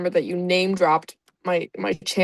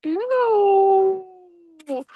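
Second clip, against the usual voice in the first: disgusted ew; 10 semitones higher than usual. Real, not acted. Grossed out by fanfic scene.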